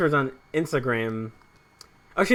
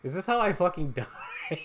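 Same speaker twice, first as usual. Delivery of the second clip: mock panic; 3 semitones higher, 6 dB quieter, faster than usual. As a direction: laugh through a dramatized panicked thought. Dramatizing his panicked thought, laughing.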